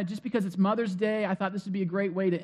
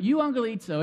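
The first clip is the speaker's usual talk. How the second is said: light Italian lilt; a small Italian flourish on the word; Italian accent; 3 semitones higher than usual. Shown as a demonstration. Preacher showing his way of saying Greek, slight Italian accent. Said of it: "do a little Italian accent".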